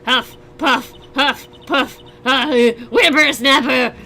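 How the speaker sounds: put-on huffing and puffing old woman, out of breath; wheezy old lady. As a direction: puff through it like a cranky old lady chasing a boy. Voices wheezing old lady character.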